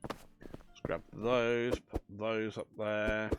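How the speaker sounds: lightly put-on Welsh accent. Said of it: "that was a terribly bad Welsh impress".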